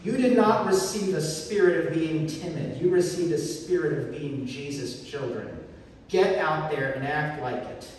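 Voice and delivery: hint of a coach rallying a losing team; half-time pep talk. Paul to a losing team at intermission, rallying pep talk. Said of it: "This is Paul talking at intermission to a team that is losing".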